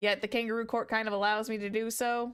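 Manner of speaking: ordinary talk, nothing marked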